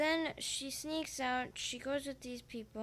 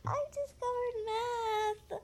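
triumphant; 11 semitones higher, 4 dB louder, much slower than usual. Acted. Triumphant joke about addition.

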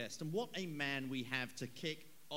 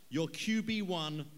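slow, drawn-out boxing announcer, building to a much higher, louder shout on Darnold; ring announcer; 3 semitones higher, 7 dB louder, slower than usual. Acted. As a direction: stretch the name like a big fight intro. Ring announcer introducing guest.

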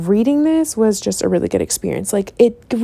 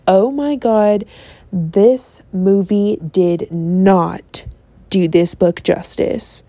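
slow disappointed sigh; slower than usual. Retold or imitated. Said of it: "One side of me was like".

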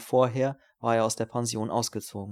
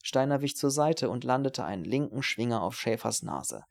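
ordinary delivery, nothing marked

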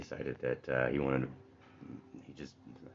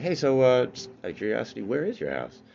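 louder and higher, nosy question; curious rich man; 8 semitones higher, 9 dB louder than usual. Acted. Rich man asking where the house is, curious. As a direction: lean in, dying to know. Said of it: "the rich man's like".

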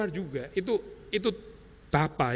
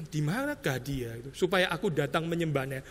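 mock sweet-talk; 2 semitones lower, 6 dB quieter than usual. Shown as a demonstration.

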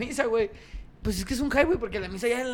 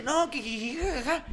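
mock giggle; 5 semitones higher, 4 dB quieter, slower than usual. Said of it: "ya nomás el Tony dice".

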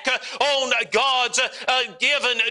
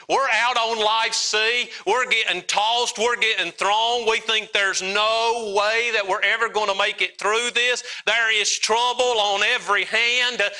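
raised, steady preacher's delivery; preaching. Real, not acted. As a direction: preach it with rising urgency. Preaches on the song's storm.

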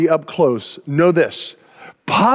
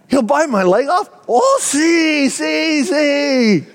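hammed-up fright, shouting yes in a hurry; comic mock panic, voice shooting up; retold alarm; 8 semitones higher, much slower than usual. Retold panic at dog warning.

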